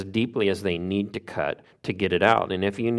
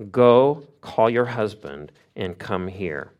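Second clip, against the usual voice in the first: firm command; slower than usual. Retold or imitated. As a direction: give a measured order, pausing after the first word. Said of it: "he gives her this command".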